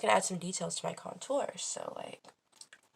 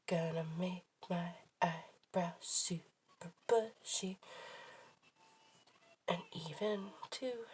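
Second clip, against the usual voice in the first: whispering; 3 dB quieter, slower than usual. Real, not acted. Whispering to self while working.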